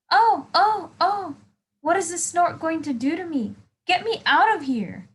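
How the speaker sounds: high, panicky cry for help; high panicked pleading; frightened bird. Acted. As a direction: squeak out the fear like a trapped chick. Bird scared on the snort.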